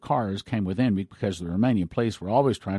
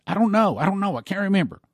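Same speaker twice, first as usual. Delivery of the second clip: higher-pitched, exasperated retelling of his answer; mad outburst; 8 semitones higher, 4 dB louder than usual. Retold or imitated. Dimitri fending off the persistent questioner, irritated. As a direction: throw the answer back, fed up with the questions. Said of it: "that's when he got mad".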